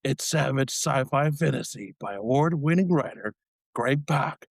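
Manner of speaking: movie trailer narrator voice. Pretend. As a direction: read it like an epic film trailer. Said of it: "in our best, like, trailer voice guy".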